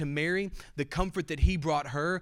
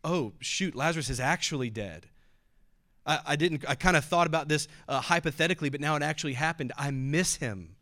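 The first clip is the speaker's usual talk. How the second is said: mock startled Jesus. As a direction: lightly play a caught-off-guard Jesus. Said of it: "was he moved because he finally realized".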